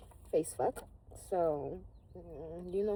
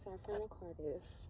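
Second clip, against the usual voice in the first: whisper; 6 dB quieter than usual. Real, not acted. Soft tarot reading.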